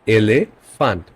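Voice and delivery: এলিফ্যান্ট broken up as 'eh-leh... fant'; German, by syllables. Shown as a demonstration. Teacher repeats for learners, এলিফ্যান্ট split into 'eh-leh, fant'. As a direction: spell out এলিফ্যান্ট in parts, E as 'eh'. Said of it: "এটা হবে এ".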